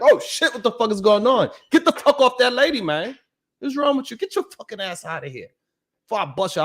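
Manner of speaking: mock commanding roar at a man on the subway; Mufasa voice. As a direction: puff up like Mufasa and scare off the attacker. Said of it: "you gotta put that Mufasa voice".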